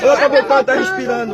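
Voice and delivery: loud, breathless repeated cry of relief; urgent shout. Real, not acted. Relative calling out the baby is coming back, urgent shout. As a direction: shout it over the chaos, desperate hope.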